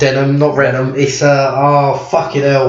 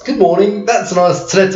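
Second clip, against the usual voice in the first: higher, brighter repeat of the line; quoting Moss; 4 semitones higher than usual. Retold or imitated. Friend repeating the sitcom line back, a touch higher. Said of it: "Can you use it in a sentence?".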